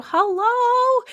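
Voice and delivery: the cat crying out hello; hammed-up cat call. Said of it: "she'd go".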